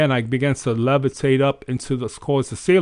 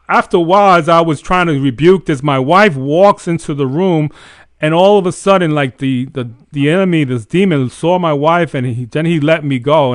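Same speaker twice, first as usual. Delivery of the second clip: louder, urgent storytelling; building intensity; 2 semitones higher, 6 dB louder than usual. Real, not acted. Telling how the wife walked in, louder and urgent. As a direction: push the climax of the story hard.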